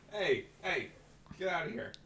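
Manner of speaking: high cartoon duck voice. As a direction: squawk it like a duck. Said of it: "That was a very good duck voice".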